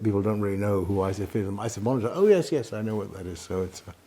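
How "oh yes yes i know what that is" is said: surprised recognition. Retold or imitated. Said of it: "people say".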